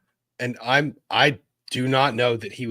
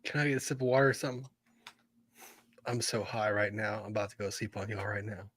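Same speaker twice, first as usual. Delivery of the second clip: mumbling sleepy stoner voice; fading, quiet stoner mumble; 3 semitones lower, 10 dB quieter, faster than usual. Retold or imitated. Imitating the high witness.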